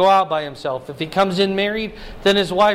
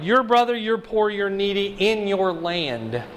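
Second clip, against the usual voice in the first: "your" weighted, slow ending; stress on your. Shown as a demonstration. Preacher repeating the qualifier "your", slow stress. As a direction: press each "your". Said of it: "It's qualified".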